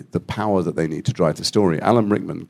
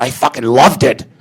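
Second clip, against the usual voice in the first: laughing delight; 5 semitones higher, 6 dB louder than usual. Retold or imitated.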